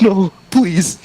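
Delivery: very high, squeaky begging; mock pleading. Unwilling student begging the screaming club member, mock terror. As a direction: plead like a hammed-up victim. Acting dragged-off unwilling film audience.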